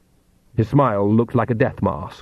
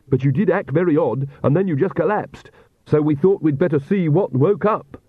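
slightly higher character voice; apologetic Piotr; 5 semitones higher than usual. Acted. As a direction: explain defensively to the woman who collapsed.

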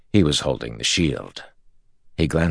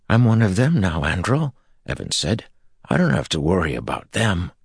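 higher, louder proud voice; proud boast; 5 semitones higher, 3 dB louder than usual. Acted. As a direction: declare it proudly. Evan boasts.

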